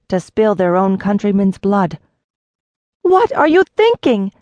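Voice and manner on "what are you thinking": much higher, loud outcry; cry out. A narrator's reading. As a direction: cry out to stop the fighting men. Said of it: "Eliseta cried".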